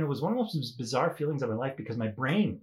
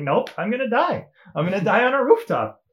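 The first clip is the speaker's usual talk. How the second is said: mock panic; 7 semitones higher, 7 dB louder than usual. Retold panic on the rooftop.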